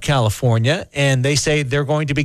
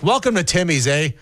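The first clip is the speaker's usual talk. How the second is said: higher, hammed-up Canadian accent with eh; Canadian Gord; 4 semitones higher than usual. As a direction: play a cheery Canadian drive-through guy. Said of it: "Gord would sound more Canadian".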